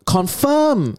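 high-pitched mock mom voice, stretched out; drawn-out, high motherly protest, playfully imitated; mother's retort. Retold mother reacting to son's question.

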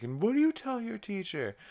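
high, stern put-on interrogation; Stewie. Stewie spanking Chris by the car, high mock-stern voice. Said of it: "Stewie starts spanking Chris really hard".

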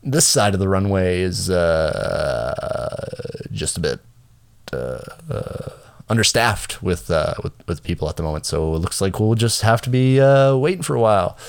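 halting captain on the intercom; hesitant pilot full of uhs; pilot announcement. Retold or imitated. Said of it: "he goes".

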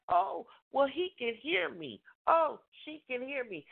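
a hint of a smug shouter; mock oblivious partner. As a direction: mimic someone sure they're heard. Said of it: "you think that".

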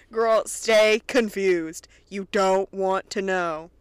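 slow, laughing emphatic advice. Real, not acted. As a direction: drag it out through a laugh. Addressing character, laughing, slow.

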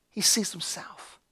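slow, near-whispered reply; soft and drawn out; hushed. Retold or imitated. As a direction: let it sink to a slow, tender hush. Retold gentle word to weeping woman.

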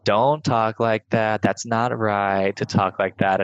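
slow, mild mock telling-off; teacher gently chiding, slowly; imitating passive teacher. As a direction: drag out a half-hearted scolding. Retold teacher's feeble scolding.

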